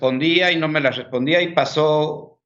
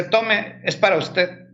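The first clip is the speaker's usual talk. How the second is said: higher, lightly voiced child; a touch of a sweet girl handing something over; little girl's voice; 5 semitones higher, slower than usual. Girl hands over the scroll. (voz de niña, algo más aguda)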